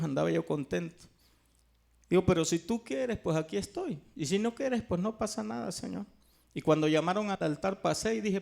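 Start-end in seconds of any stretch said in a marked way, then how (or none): 2.2-6.1 casual prayer. Retold or imitated. Retold easygoing prayer to the Lord.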